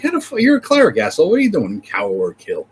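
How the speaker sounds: high-pitched mock disbelief at the cleric; incredulous outrage. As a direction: squeak out the outrage, then drop it at the end. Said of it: "I'm like".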